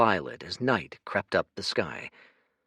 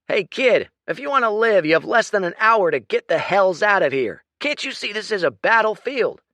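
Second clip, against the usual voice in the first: loud, much higher gruff warning; shouting lieutenant; 13 semitones higher, 9 dB louder than usual. Acted. Lieutenant shouting a warning at the boy. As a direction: bark it at the kid.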